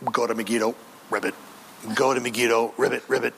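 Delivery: low, quiet demon frog luring the kings; a quiet, sly demon whisper with croaks. Pretend. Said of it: "they're saying".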